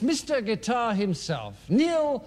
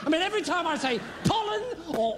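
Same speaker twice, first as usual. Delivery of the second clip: exasperated rant; 4 semitones higher, much faster than usual. Acted.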